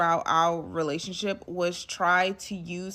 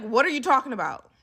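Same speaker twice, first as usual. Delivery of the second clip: quick, higher incredulous question; baffled; 5 semitones higher, 4 dB louder, faster than usual. Retold or imitated. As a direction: fire it back in disbelief. Retelling her baffled comeback.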